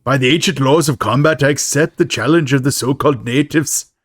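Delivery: best attempt at an Irish accent. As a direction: declaim it like an Irish gang boss. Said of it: "That's my best Irish accent".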